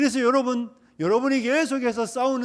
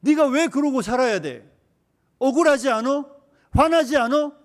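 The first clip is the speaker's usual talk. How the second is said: louder, higher provocation; inciting devil; 4 semitones higher, 5 dB louder than usual. Retold or imitated. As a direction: whip up their anger. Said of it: "하면서 마귀는 계속해서 우리의 자아를 부추기죠".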